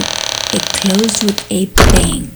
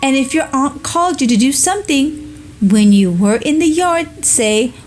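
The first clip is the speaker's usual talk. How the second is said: high, coaxing ghost; persuasive ghost; 5 semitones higher than usual. Acted. Ghost tempting Jimmy to learn vanishing, high coaxing. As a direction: sell it sweetly to the boy. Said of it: "he said persuasively".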